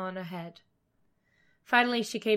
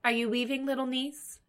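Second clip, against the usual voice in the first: lightly sugared, coaxing witch; sweetest voice; 4 semitones higher than usual. A narrator's reading. Witch checking on the girl through the window, sweetest voice. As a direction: coo it with a touch of false sweetness. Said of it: "said in her sweetest voice".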